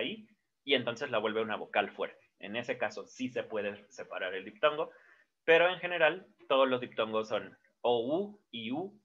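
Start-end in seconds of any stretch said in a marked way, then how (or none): none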